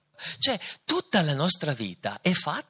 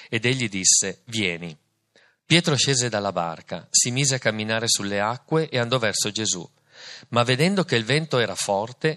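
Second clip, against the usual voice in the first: Gospel reading. Acted. Reads the Gospel passage.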